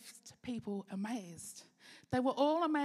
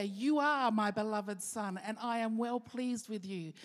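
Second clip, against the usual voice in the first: loud declaration; 4 dB louder than usual. Shown as a demonstration. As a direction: declare it for everyone to hear. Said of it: "in a much louder way because he wanted to declare".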